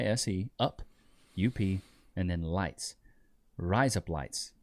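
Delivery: "Rise up lights" run together to sound like Australian razor blades; mock-teach an Australian accent through "Rise up lights"; Australian accent trick. Shown as a demonstration. Showing chat how Australians say razor blades, Australian accent demo. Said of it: "with an Australian accent".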